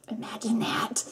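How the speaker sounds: dry whispered aside; whispered sarcasm. Real, not acted. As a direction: murmur it sarcastically. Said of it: "sarcastic aside".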